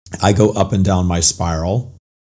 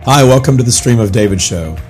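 hoarse, raspy, barely-there voice; lost voice. Real, not acted. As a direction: talk through a voice that's nearly gone. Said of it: "I have no voice".

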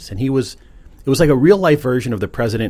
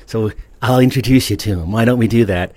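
put-on folksy old president; Ronald Reagan voice; 2 semitones higher, 3 dB louder than usual. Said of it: "talking like that in a dream".

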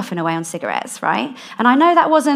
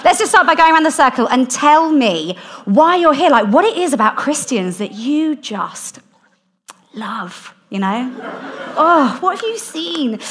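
high, gushing Valley girl imitation; hammed-up Valley girl leading a group; 6 semitones higher, 4 dB louder than usual. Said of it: "I don't know why she's a Valley girl".

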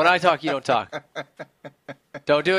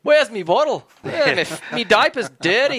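toddler Australian mock; 4 semitones higher than usual. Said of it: "Like a three-year-old".

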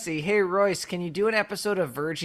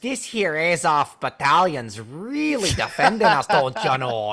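mock Midwest accent. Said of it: "talk like we're in the Midwest".

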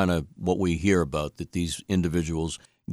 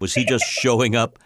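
laughing while asking; 3 semitones higher than usual. Real, not acted. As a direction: question broken by a real laugh. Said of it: "what are you laughing at".

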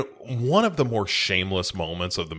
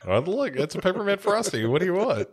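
much higher, gushing mock glee; overly happy child; 11 semitones higher than usual. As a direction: ham up a kid thrilled by a frosty. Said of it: "She's always way too happy".

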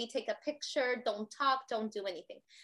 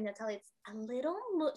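sweet and gentle; 6 dB quieter, faster than usual. Retold or imitated. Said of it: "she's so sweet".

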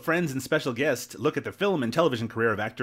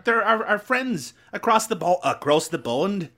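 higher, drawn-out mock English accent; put-on English accent; 5 semitones higher than usual. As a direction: tease your co-host in a hammed-up English accent.

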